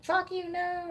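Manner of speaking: parakeet voice. Pretend. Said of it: "they'll be like".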